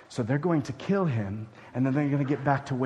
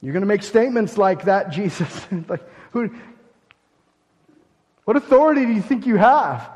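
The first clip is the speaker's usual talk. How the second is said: loud, high, acted outrage; indignant challenge; 7 semitones higher, 10 dB louder than usual. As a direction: challenge his authority as an outraged objector. Acts Pharisees challenging Jesus.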